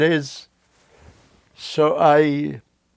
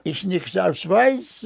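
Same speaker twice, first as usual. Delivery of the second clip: put-on German words in a French accent; 3 semitones higher than usual. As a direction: play a Frenchman speaking broken German. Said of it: "So I imitated a French accent".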